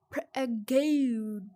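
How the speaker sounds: slow drawn-out whisper. Real, not acted. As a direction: stretch it in a whisper. Slower whispered repeat.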